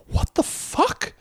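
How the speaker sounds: high, drawn-out incredulous quote; incredulous outburst. Retold or imitated. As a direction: imitate a stunned, drawn-out reaction. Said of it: "Booth is like".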